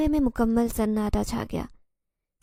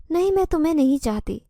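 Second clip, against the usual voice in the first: a raised, pleading cry, not a full scream; mild acted scream; 4 semitones higher, 4 dB louder than usual. Zoya refuses Zehran, a mild raised cry. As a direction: push him away with a loud no. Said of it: "Zoya چیخی".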